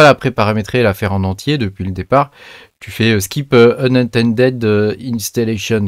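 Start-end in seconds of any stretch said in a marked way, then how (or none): 3.2-5.9 slow English words in a thick French accent; bad French-accented English. Real, not acted. Reading a setup option aloud to viewers, rotten French accent. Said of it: "avec mon super accent bien pourri".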